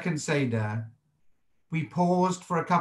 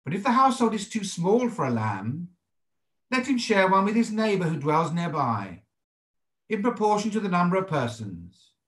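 higher, measured reading aloud of scripture; 3 semitones higher than usual. Acted. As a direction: read the verse out formally, pitched up, phrase by phrase.

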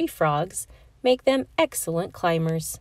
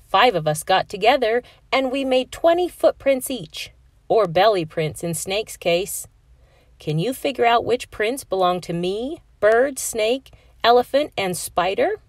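eager student voice; 3 semitones higher, 3 dB louder than usual. Acted. Narrator voices student presenting project.

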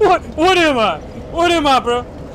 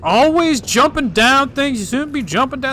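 talking black. Pretend. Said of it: "me talking black".

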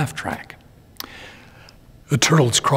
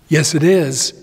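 shouting; 4 semitones higher, 4 dB louder than usual. Acted. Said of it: "shouts to his friend".

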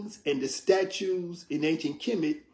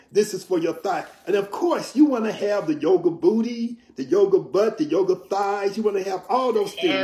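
mocking yoga hype; 3 semitones higher, 3 dB louder than usual. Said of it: "they use all these different terms".

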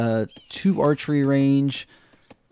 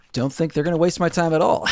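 laughing; 4 semitones higher, faster than usual. Real, not acted. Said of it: "Someone saying".

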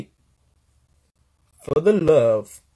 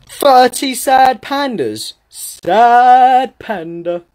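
mock sad; 5 semitones higher, 3 dB louder, much slower than usual. Reacting to sad panda gifts.

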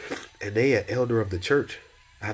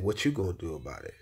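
quiet voice of God; 2 semitones lower, 6 dB quieter than usual. Retold or imitated. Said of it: "He said".

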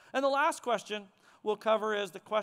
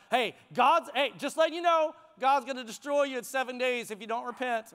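quick, offhand warning; half-hearted preaching. Acted. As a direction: toss off the sermon as a casual heads-up. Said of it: "preached a half-hearted sermon".

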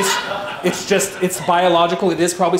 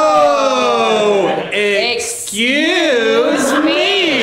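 surprised; 4 semitones higher, much slower than usual. Acted. Shocked reaction in scene.

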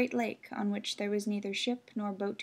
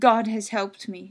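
mother; 9 dB louder than usual. Acted. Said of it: "she replied".

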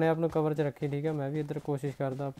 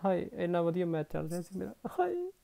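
dismayed wail; 3 semitones higher, 5 dB quieter than usual. Real, not acted. Laments losing a good match.

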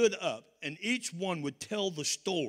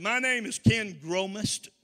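put-on a light New Jersey accent on the name; 4 semitones higher, 5 dB louder, slower than usual. Newcomer introduces himself to the family in a Jersey accent. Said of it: "with a Jersey accent".

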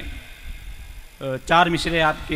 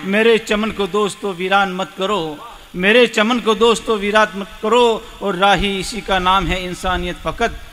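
poem recitation; 3 dB louder than usual. Acted. Poet urging friends to trouble nobody, reciting. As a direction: lift the plea, then bring it gently down. Recites ghazal's closing couplets.

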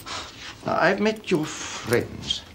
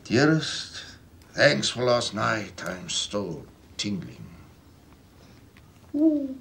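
mock-sultry reading; 2 semitones lower, slower than usual. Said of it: "God, you're sick".

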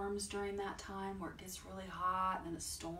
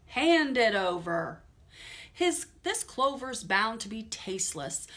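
loud, bossy villain command; rat ordering; 3 semitones higher, 5 dB louder than usual. Acted. The highway rat ordering the rabbit to hand over clover. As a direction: demand it like a robber. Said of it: "he ordered".

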